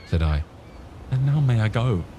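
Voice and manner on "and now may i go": put-on higher boyish voice, earnest; the lad pressing to get back to his friends; youthful, keen voice; young Jim.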